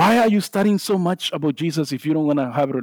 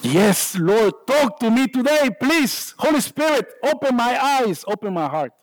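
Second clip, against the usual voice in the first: lightly voiced eager prayer, pitched up; 6 semitones higher than usual. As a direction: plead gently like a hopeful worshipper. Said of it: "Is our heart burning?".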